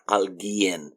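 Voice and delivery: alguien softly as "AL-gyen", no u; silent U. Shown as a demonstration. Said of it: "as if the u is not there".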